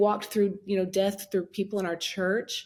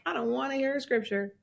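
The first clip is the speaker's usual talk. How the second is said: laughing, louder, higher exasperated protest; mock mad; 5 semitones higher, 5 dB louder than usual. Widow retelling her refusal to talk to God, mock mad. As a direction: protest indignantly, half laughing. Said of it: "Very mad at him right now".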